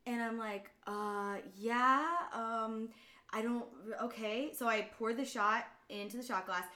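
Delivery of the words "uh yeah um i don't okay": halting, unsure reply, acted out; retold hesitation. Bartender facing an odd chilled-shot order, retold hesitant answer. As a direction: stall with gaps between words.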